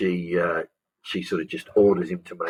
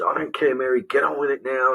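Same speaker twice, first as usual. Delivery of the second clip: sharp, raised, impatient order; angry; 6 semitones higher than usual. Acted. Boss on the phone telling Mary off, angry. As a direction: snap it at Mary, done with her. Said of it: "at the start she's angry".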